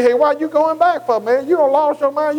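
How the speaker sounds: a mocking friend scoffing at going back to church; mocking worldly friends. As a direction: jeer at the believer like a worldly crowd. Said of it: "he tried to get them to say".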